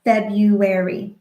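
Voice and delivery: February in four slow even beats, FEB-RU-AR-Y; slow syllable-tapped word. Shown as a demonstration. Therapist counting beats in February, slow and rhythmic. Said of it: "Four beats".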